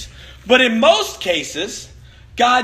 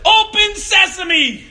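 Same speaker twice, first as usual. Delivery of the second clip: higher, slow, drawn-out command at a locked door; childish magic command; 9 semitones higher, 3 dB louder, much slower than usual. Retold or imitated. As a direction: proclaim it like a kid at the door. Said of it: "what I did was I said".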